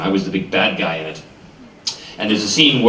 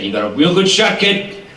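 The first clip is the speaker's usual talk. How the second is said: higher, louder, half-mocking Wolverine tease; imitating the casting people; 13 semitones higher, 4 dB louder than usual. Casting people teasing him about Wolverine, higher mock voice. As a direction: tease with a mock claw sound. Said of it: "They said".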